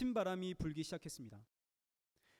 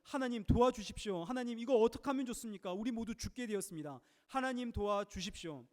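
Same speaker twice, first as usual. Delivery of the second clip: higher, hurried cry for help; desperate plea; 3 semitones higher than usual. Retold or imitated. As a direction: beg God in mock panic. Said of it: "하나님께 부르짖는". (다급하게 하나님께 매달리듯)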